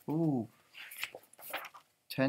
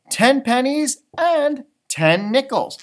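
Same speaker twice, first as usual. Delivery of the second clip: higher, slower, a hint of kind mom; lightly voiced mom; 8 semitones higher, 11 dB louder, slower than usual. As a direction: give the coins like a helpful mom. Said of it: "said Mom".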